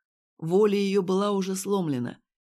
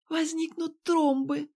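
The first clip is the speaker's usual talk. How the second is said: nurse's answer; 9 semitones higher, slower than usual. A narrator's reading.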